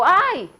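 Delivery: high, loud sharp "Ai!" cry of pain; sudden pained yelp; boy's cry of pain. Retold or imitated. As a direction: yelp it out like a hurt little boy. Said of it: "ele gritou".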